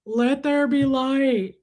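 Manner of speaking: slow, booming-ish proclamation; mock God voice. Retelling creation to the nurse, slow mock-holy proclamation. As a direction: proclaim it like scripture.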